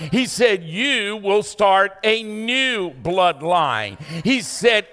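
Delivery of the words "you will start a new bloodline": voice of God. Acted. God speaking to the preacher.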